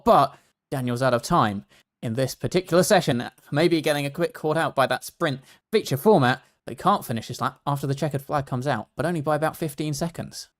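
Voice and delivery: crackling microphone; crackly usb mic. Real, not acted. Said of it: "My mic is crackling a lot, apparently".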